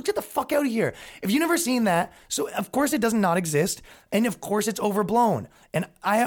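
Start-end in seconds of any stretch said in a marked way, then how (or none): 0.0-0.9 high mock-angry dismissal; retold outburst, pitched up; Paul Thompson. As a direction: imitate a friend spitting with anger, without shouting. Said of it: "Paul's spitting in his face".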